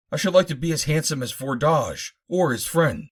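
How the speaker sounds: vain head. Acted. Head Tor Durbar pleads vanity.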